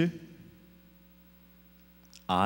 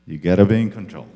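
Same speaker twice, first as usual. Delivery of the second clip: forceful; 12 dB louder, much faster than usual. Shown as a demonstration. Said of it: "What are you saying by that".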